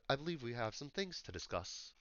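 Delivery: put-on soft, imperfect British accent; quietly formal, half-managed British; attempted British accent. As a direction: have a shaky go at British, softly. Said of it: "I'm trying to do British".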